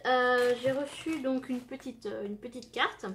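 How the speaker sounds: talking while finishing a bite; words round a mouthful of food; mouth full. Real, not acted. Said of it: "Je finis de manger".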